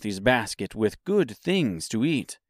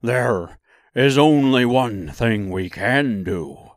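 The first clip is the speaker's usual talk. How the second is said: lightly voiced lion, slow; a hint of a big beast's voice; cowardly Lion; 4 dB louder, slower than usual. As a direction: answer slowly as the lion. The Lion replies.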